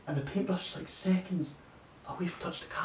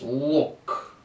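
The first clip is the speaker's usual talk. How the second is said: raised-voice, sharp "Look"; a bit loud; 3 semitones higher than usual. Acted. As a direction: cut in loudly to stop him. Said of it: "Viktashev gets a bit loud".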